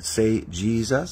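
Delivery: "Say, 'Jesus.'" drawn out slowly, word by word; slow it down so he can follow; slow, coaching Jesus. Shown as a demonstration. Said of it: "So I just said".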